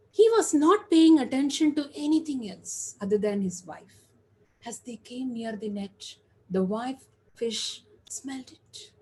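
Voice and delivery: lightly animated storyteller voice; story narration. A narrator's reading. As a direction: tell it like a fable, a little lifted. Tells a fable to an audience.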